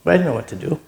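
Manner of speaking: holding back tears as he speaks; choked up. Real, not acted. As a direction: voice catching with real emotion, long pauses before. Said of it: "I get a little choked up".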